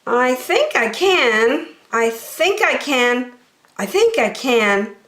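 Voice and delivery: slow, resolute chant; the blue engine deciding to try, slow; determined little engine. Acted. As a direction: talk yourself into it. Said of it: "Then she said".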